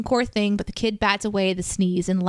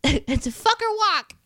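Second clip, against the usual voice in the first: put-on slow, laughing kid's voice; a hint of a giggling child; 10 semitones higher than usual. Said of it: "And the kid says".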